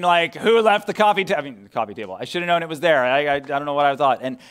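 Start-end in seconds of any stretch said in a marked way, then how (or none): 0.3-1.4 mild mock yell, a little raised; half-hearted holler of complaint; retold yell. Dad who banged his shin in the dark, mildly yelling. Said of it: "I started yelling and screaming".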